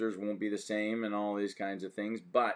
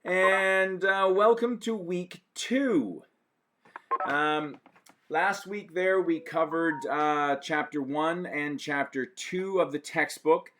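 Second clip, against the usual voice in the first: breathless after running around; winded, catching breath; 6 semitones higher, 3 dB louder than usual. Real, not acted. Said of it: "I'm a little out of breath".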